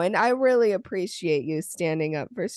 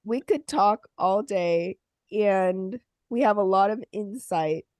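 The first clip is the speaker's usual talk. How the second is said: sniffling. Real, not acted. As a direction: sniffly voice with a runny nose. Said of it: "sorry, I'm so sniffly".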